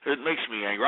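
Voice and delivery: low, soft, subdued admission; deflated anger. Real, not acted. Host apologising to fans after losing his temper, subdued. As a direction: drop right down, spent after the outburst. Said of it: "I'm sorry".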